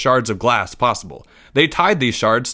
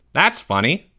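lightly voiced, higher-pitched teenage employee; puzzled teen voice, slightly raised; teenage Mike; 5 semitones higher than usual. A narrator's reading. Game truck employee puzzled outside trailer, teenage voice. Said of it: "the voice that used to belong to Mike".

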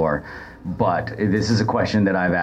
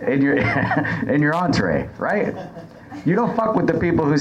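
higher, half laughing warning; laughing threat; 5 semitones higher than usual. Real, not acted. Waiter warns rude diners about their food, laughing menace. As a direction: grin through a mock menace.

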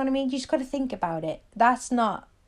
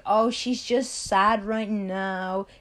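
mocking excuse; much slower than usual. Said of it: "don't believe any excuse like".

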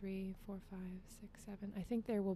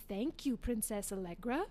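narrator prompting. Retold or imitated. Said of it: "my dad was the narrator and would say".

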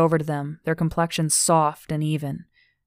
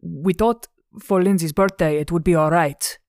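louder, sheepish character voice; stammering Joseph; 5 dB louder than usual. Acted. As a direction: protest like someone caught out. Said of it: "Joseph stammered".

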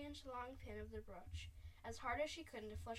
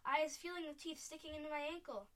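higher, louder cry of alarm; high, raised voice of a giant in pain; storybook yell; 5 semitones higher, 5 dB louder than usual. A narrator's reading. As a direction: complain loudly as a frightened giant. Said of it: "he yelled".

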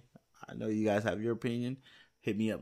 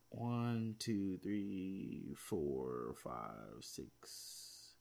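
fading mutter; 3 semitones lower, 11 dB quieter, much slower than usual. Real, not acted. Counting under breath, fading out.

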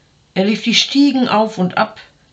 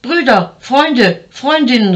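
higher, louder call for help; 6 semitones higher, 4 dB louder, slower than usual. A narrator's reading. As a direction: call loudly across the house. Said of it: "rief er". (laut und hoch um Hilfe rufend)

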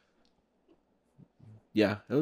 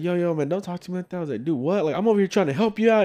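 high-pitched, heated mock protest; worked-up retelling of a quarrel; retold anger; 9 semitones higher than usual. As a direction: replay an indignant argument, pitched well up. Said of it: "and I got mad".

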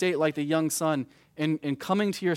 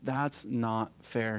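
mild angry complaint; 4 semitones lower, 4 dB quieter, much slower than usual. Retold or imitated. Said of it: "He's angry".

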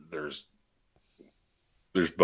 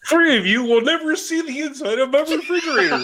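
mock menace; 11 semitones higher than usual. Threatens the beers.

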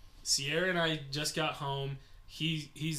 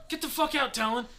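mock yell; 9 semitones higher, faster than usual. The speaker yells at Talon.

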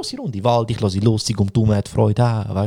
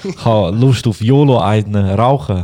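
mock stoner; 4 semitones lower, 4 dB louder, slower than usual. Stoner voice, slow.

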